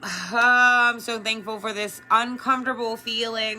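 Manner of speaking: heartfelt hurt. Pretend. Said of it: "you really have to go inside and be like".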